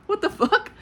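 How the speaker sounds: high, laughing exclamation; laughing disbelief. Real, not acted. Reviewer baffled by the standalone claim, laughing in disbelief. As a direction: burst out incredulous, pitch jumping up through a laugh.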